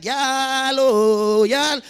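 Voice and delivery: lightly voiced auntie. Meme Selma voiced.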